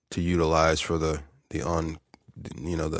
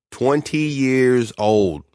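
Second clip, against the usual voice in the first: amazed; 7 semitones higher, 9 dB louder, much slower than usual. Real, not acted. Marveling at twenty years.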